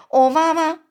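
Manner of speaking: high, loud giant shout; loud shocked cry. A narrator's reading. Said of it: "友善大巨人就大叫".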